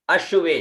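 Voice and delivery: अश्वे said as a-shu-ve, the श glides into व; teacher sounding out अश्वे; Vedic pronunciation demo. Shown as a demonstration. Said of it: "इसका उच्चारण करेंगे अश्वे".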